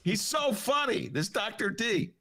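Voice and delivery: hammed-up delighted politician; mock governor. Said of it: "He goes".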